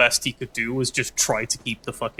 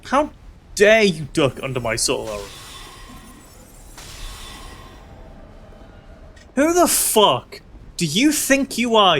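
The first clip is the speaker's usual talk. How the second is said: mock outrage; 4 semitones higher than usual.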